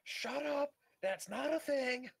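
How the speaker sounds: high, loud, indignant shout; loud protest. Real, not acted. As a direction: yell it back, outraged. Protesting a friend's joke.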